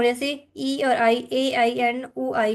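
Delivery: ई और आई, ए आई, ओ आई spelled slowly and clearly; slow diphthong spelling. Shown as a demonstration. Teacher spelling out the diphthong symbols, slowly. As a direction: spell each glide slowly. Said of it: "three ending in I sound".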